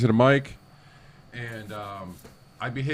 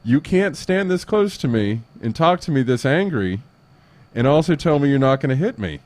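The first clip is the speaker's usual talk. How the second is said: defiant; 5 semitones higher than usual. Retold or imitated. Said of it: "I was like".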